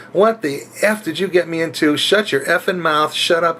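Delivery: high, angry telling-off; mock angry yell. Driver yelling at the passenger, retold. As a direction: snap at her to shut up. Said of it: "I just yelled at this woman".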